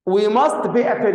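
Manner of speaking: slow, deliberate reading of the example; slow read-aloud. Shown as a demonstration. Teacher rereading the example sentence for students, slow and careful. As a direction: read each word out slowly for the class. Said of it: "هقرأ أنا، حاضر تاني".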